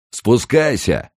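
high, drawn-out shouted order; rough yell. A narrator's reading. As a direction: yell up at him roughly, slowly stretching the word. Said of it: "заорал грубый голос".

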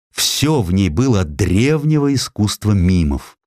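ordinary talk, nothing marked

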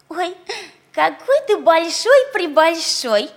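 sugary, coaxing pig voice; sweet ingratiating. Acted. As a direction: lure him in sweetly. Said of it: "сладким, вкрадчивым голосом".

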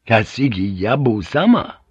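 insistent naming of a lord; samurai assertion. Acted. Samurai refusing the pilot by naming his lord, insistent. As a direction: state the name as final authority.

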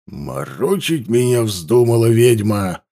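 slow, hissed menace; hissing accusation. A narrator's reading. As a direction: hiss it at her. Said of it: "зашипел спрашивающий". (шипящее обвинение)

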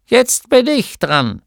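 pleading to be next; eager gnome. A narrator's reading. Gnome husband voiced. (Gnom drängelt bei seiner Frau, höher und langsam)

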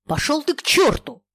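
loud, high furious yell; angry shout. A narrator's reading. Shoving off a pushy friend, angry shout. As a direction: spit it at him in rage. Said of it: "злобно крикнул Ежов".

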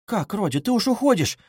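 dismayed, pitch climbing; alarmed. A narrator's reading. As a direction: ask with a touch of fright. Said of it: "даже с испугом спросила".

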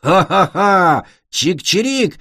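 slow, loud mock-triumphant laugh; gloating laugh. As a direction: cackle over the winnings. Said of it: "веселился Глин".

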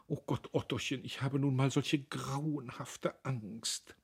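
high, thin, anxious wife; thin fretful wail, pitched well up. A narrator's reading. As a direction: plead fearfully in a small high voice. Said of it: "eine dünne Stimme".

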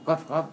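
"قاف" said with a true back q; "قاف قاف" with both q sounds fully articulated; clear qaf. Shown as a demonstration. Teacher agreeing with a student, "قاف" with clear q. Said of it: "ينطقوا قاف واضحة تمامًا".

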